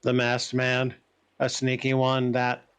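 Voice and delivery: slow, level-pitched, deliberate judgement; translated character's verdict. Acted. Creature sizes up each visitor in turn, slow and even. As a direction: pronounce each judgement slowly and evenly.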